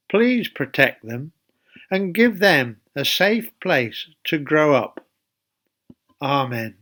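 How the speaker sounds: calm, measured school prayer. Acted. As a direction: lead the children gently in prayer. Leads the children in prayer.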